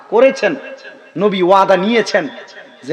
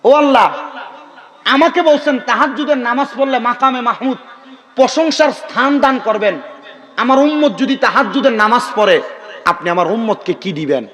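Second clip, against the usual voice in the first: raised, mildly pleading prayer; retold supplication; 4 semitones higher than usual. Preacher voicing the Prophet's plea for his ummah, mildly imploring. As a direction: call out to Allah as if petitioning. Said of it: "আল্লাহ পাকের কাছে নবীজি দোয়া করছে".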